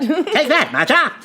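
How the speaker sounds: playful taunt through a laugh; hammed-up challenge; mock defiant. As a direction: toss it out as a pretend battle cry. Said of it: "I think you're going".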